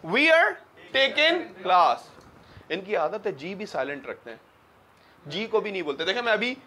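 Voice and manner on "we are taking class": "We are" blended to "wear", "taking" with a silent g; high, slow British "We are taking class"; British English. Shown as a demonstration. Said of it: "कैसे बोलते हैं". (British लहजे में धीमे, जी silent करके)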